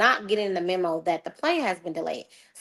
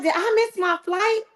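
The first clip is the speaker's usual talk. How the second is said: much higher, anxious squeak of a question; panicked question; 12 semitones higher than usual. Retold or imitated. Arriving at the gate, she frantically asks if she missed it. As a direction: ask it high and frantic, dreading the answer.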